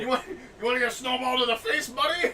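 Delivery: loud, high taunt broken by laughter; laughing mock threat. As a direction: ham up the threat while laughing. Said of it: "retold threat, laughing".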